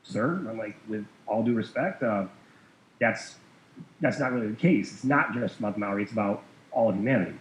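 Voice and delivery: soft, measured, respectful correction; politely disagree in a softened voice. Retold or imitated. Caller correcting a banker with all due respect, softly respectful. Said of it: "in a very respectful way".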